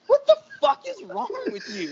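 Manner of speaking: very high, squealed mock disbelief; incredulous outburst. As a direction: act out appalled disbelief way up high. Retold shock at drenched friend.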